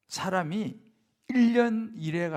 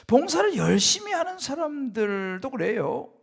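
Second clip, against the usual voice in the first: usual speaking voice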